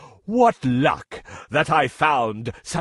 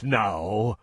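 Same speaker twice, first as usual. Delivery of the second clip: menacing growl; 8 semitones lower, 4 dB quieter, slower than usual. Acted. Lion threatens mouse.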